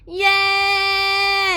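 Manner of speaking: high, loud cheer; a big happy crowd yay. Retold or imitated. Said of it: "they're all like".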